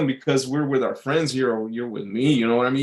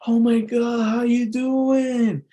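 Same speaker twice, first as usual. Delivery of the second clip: creepy guy greeting; 10 semitones higher, slower than usual. Retold or imitated. Creepy host greeting the friend's girlfriend, high drawn-out sleazy voice. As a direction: stretch out the sleazy hello. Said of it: "I could sense the creepiness".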